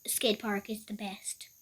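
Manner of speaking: soft unvoiced whisper. Real, not acted. Player quietly settling on a plan, whispered. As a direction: whisper it like a secret idea.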